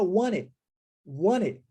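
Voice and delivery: "want it" reduced to "wan-ih"; both Ts dropped. Shown as a demonstration. Teacher shows final T omitted too, both Ts silent. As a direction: say "want it" with no T at all. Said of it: "omitir o T do final da palavra it também".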